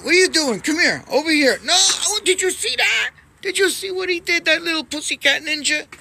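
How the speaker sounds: high, loud squeaky cat-mother voice; voicing the cat mother. Voicing the mother cat scolding her kitten. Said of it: "between him and his mother".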